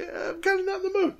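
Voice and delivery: breathy whisper. Real, not acted. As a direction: whisper it, high and airless. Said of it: "describes me and my attitude".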